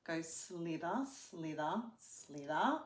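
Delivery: soft, low hissing slither; snake slither sound. Shown as a demonstration. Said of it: "move it like a snake".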